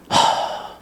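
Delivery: 힘 빠진 긴 한숨; 어이없어 숨만 길게 내쉬기. Acted. Sighing over grandmother's wandering. (답답해서 내쉬는 한숨)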